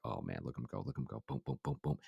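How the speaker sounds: low, soft play-by-play to himself; hushed excitement. Retold or imitated. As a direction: quietly cheer the runner on under your breath. Uncle's hushed commentary on nephew's run.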